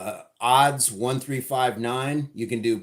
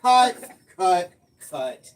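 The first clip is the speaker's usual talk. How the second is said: loud high director call of cut; film director; 6 semitones higher, 7 dB louder, much slower than usual. Pretend. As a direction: shout cut like a playful director.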